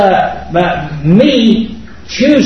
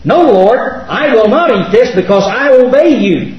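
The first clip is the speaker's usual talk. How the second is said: firm, higher-pitched refusal without defiance; insistent but obedient protest; respectful refusal; 5 semitones higher than usual. Acted. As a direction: refuse God earnestly and obediently. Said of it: "It's not an argumentative, defiant attitude".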